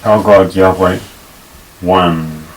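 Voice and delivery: slow, each word set apart; slow word-by-word English gloss. Shown as a demonstration. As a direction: give every word its own beat. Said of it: "word by word".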